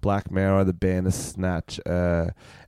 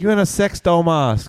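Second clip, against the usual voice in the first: loud disbelief; 8 semitones higher, 4 dB louder than usual. Pretend. Mock interrogation.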